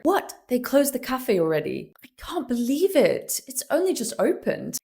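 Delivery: high surprised disbelief. Shown as a demonstration. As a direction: sound genuinely caught off guard. Surprised example.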